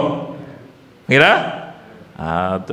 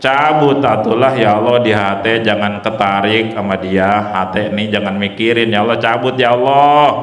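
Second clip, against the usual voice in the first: earnest prayer; 3 semitones lower than usual. Shown as a demonstration. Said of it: "Suka doa begitu?".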